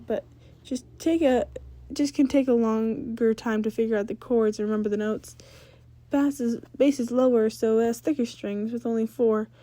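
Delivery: put-on confident girl explaining her gear; Ember's voice.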